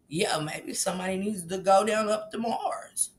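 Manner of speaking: soft, low put-on voice; hushed, low mock impression; mimicking a weird remark. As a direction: impersonate him musing quietly, with a slight laugh.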